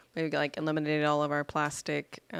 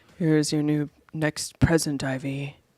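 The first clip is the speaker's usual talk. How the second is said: slow, put-on lover-man voice. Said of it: "doing a famous soul singer's voice".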